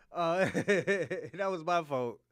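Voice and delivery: slow, laughing through the admission; laughing apology. Real, not acted. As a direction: drag it out, chuckling sheepishly.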